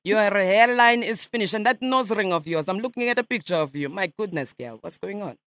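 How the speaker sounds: a light mock Russian accent, nasal ma'am; radio prank caller in a lightly faked Russian accent; put-on Russian accent. Prankster calls a stranger as a Russian journalist, mock Russian accent. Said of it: "for a Russian, your English is quite good".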